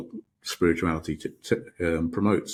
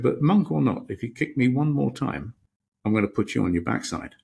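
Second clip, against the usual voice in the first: angry threat; 4 semitones higher than usual. Retold or imitated. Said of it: "There's the angry man".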